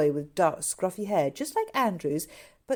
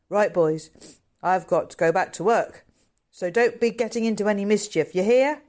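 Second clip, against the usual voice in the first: louder stern keeper warning; 3 semitones higher, 6 dB louder than usual. A narrator's reading. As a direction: call out a warning as you leave. Zookeeper Harry speaks.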